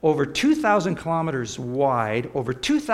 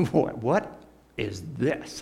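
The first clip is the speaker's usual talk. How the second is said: awestruck; 3 semitones lower, 3 dB quieter, slower than usual. Retold or imitated. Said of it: "your mouth would just drop open and you'd go".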